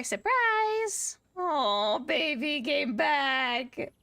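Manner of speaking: excited squeal at the returning innkeeper; delighted greeting. Real, not acted. Greeting returning game character.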